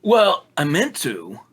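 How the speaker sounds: drawn-out defensive retort; shot back. Acted. Damien answering Misty's jab, shooting back. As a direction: push back slowly on the accusation. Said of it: "Damien shot back".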